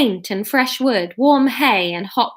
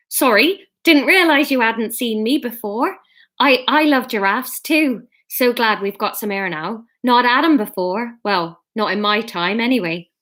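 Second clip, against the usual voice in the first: put-on Bristolian accent. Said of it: "let's make them Bristol".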